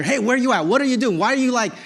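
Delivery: mock frantic checking-up; anxious questioning. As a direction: fire off worried questions. Acts out anxious messages to daughter.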